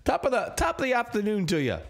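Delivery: light Irish lilt, half-hearted; a corrected brogue greeting; Irish accent. Acted. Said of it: "another Irish accent".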